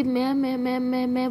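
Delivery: halting, stuck on the first word; stammering. Acted. Siya is caught lying to her aunt, stammering. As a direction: fumble for an answer, caught out. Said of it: "वो तो ऐसे मैं, मैं करने लग जाती है".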